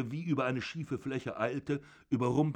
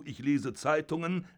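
zorniger alter Vater; 5 semitones higher than usual. Acted. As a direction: bellow down at your son from the bed. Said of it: "father mocks Georg". (wütender Vater, laut und erhoben)

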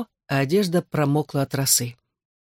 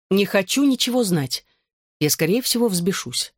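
calm; 4 semitones higher than usual. Acted. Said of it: "спокойно сказала она".

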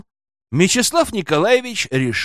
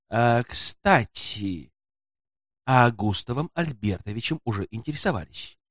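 quiet, sly porter striking a deal; 4 dB quieter than usual. A narrator's reading. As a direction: confide it quietly, for a price. Porter's sly low-voiced dealings.

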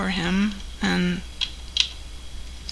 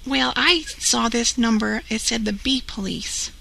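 over the phone; 2 semitones higher than usual. Real, not acted. Prank call heard over phone.

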